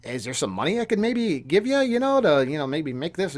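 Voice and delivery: hushed whisper of a bribe offer; whispered quote. Retold or imitated. Retelling the phone call, whispering the shady offer. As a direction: breathe it like a secret deal. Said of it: "he's like".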